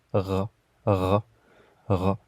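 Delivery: "ra" with a gargled back r; throaty gh. Shown as a demonstration. Teacher demonstrating the gh sound, throaty r. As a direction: gargle "ra" deep in the throat like a French r. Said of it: "et qui se prononce".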